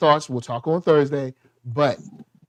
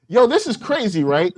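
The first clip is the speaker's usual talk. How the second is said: higher-pitched mock astonishment; hyped-up quote; 3 semitones higher than usual. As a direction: play a hyped guy letting the audience in. Imagined character hyping the audience.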